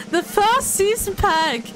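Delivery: drawn-out, slow giveaway call; suspenseful announcement. Real, not acted. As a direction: stretch the words out to build suspense. Drum-roll announcement of a giveaway winner.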